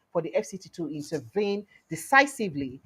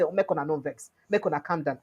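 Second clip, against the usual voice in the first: soft, lower appeal to calm down; mild, quiet pleading; 4 semitones lower, 4 dB quieter than usual. Retold or imitated. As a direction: soothe them like a begging official. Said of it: "come begin beg teachers".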